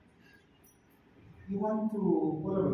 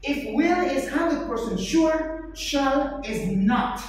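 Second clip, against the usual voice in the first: slow emphasis; 3 semitones higher, slower than usual. Shown as a demonstration. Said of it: "what is the difference".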